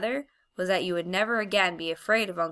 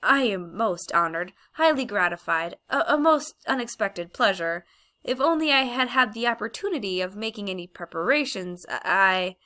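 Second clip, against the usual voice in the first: louder, flustered eager-to-please; nervous fawning; 4 dB louder than usual. Acted. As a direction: babble to please her. Uncle Andrew fawning in fear.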